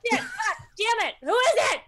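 high, loud panicked curses; startled cursing. Acted. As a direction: curse in sudden fright. Character startled in dark.

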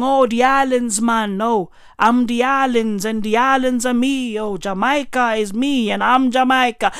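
lightly imitated Jamaican accent; imitating a rapper's patois. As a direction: put on a hint of Jamaican lilt. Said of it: "speaking patois".

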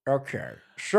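lightly voiced slurring cartoon grouch; half-failed Scottish accent turning cartoonish; Grinch. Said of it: "you sound like the Grinch".

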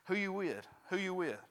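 high-pitched repeated announcer chant; game announcer's call. Retold or imitated. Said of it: "He kept saying it over and over".

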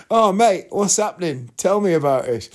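a mechanic reacting eagerly to bad news on the phone; eager concern. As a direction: sound instantly concerned and warm toward a stranger.

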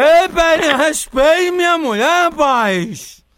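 put-on loud, slow drunken protest. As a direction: drunk caller standing up for his wife. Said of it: "bebo desmantelado".

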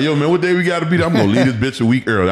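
fast, high, eager voice; eager to get to camp. Retold or imitated. Retelling how he begged to leave for camp early, fast and eager. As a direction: rattle it off, raring to go. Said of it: "I'd be like".

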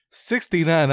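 put-on a kid blurting it out; chirpy child calling out; small kid voice.

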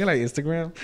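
softly mimicked Latina girl accent, rising at the end; imitated hood Latina. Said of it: "that's how she sounded".

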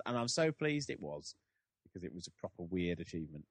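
ordinary talk, nothing marked

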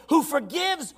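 slow, loud crying shout; preaching cry. Acted. Preacher rereading the psalm in a loud, slow cry. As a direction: wail it out, dragging each word. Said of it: "Let me say that again".

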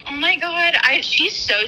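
high, excited gush; excited squeal. Real, not acted. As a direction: gush about her sweetly. Excited about a listener.

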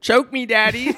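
squeaky falsetto, loud and teasing; mock sultry falsetto. Mocking a bedroom request.

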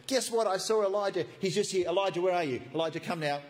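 a messenger bursting with news; eager blurting. Retold or imitated. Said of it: "Obadiah's worried he'll go to King Ahab and say".

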